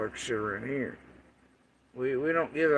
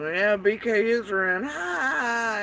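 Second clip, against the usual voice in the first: mocking laugh; 8 semitones higher, 4 dB louder than usual. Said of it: "Candace laughing".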